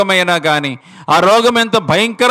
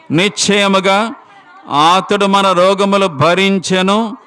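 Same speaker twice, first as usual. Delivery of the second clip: solemn scripture reading. Acted. Preacher reads Isaiah verse slowly.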